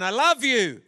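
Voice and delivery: lightly called out; mild mock shout. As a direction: call it across a valley, half-strength. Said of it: "He shouted again".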